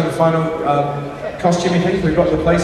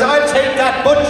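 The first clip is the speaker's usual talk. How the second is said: put-on Irish accent; 5 semitones higher than usual. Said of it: "He was Irish, not Scottish".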